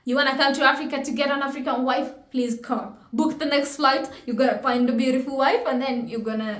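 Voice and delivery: lively hint of Jamaican accent; a Jamaican lilt slipping in. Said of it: "my Jamaican accent is coming in".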